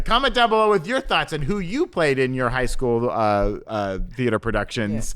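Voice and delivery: upbeat show sign-off; host outro. Acted. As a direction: wrap up the episode like a host.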